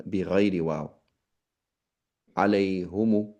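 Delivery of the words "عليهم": عليهم said as alayhumu with u vowels; deliberately wrong alayhumu; wrong pronunciation. Shown as a demonstration. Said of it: "not عليهم، but عليهم".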